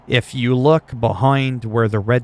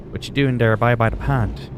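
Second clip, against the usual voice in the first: "What you doing there by the pond" in a light Newfoundland lilt; mild Newfoundland accent impression. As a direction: imitate a friendly Newfoundlander, lightly. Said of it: "They got that Newfoundland accent".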